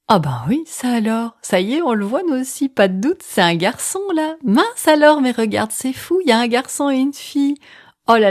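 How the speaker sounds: high, excited astonishment; surprised. Retold or imitated. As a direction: gasp it out in disbelief. Reliving the surprise of twins.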